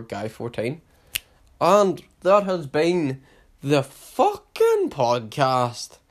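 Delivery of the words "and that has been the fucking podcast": podcast sign-off. Acted. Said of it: "show sign-off".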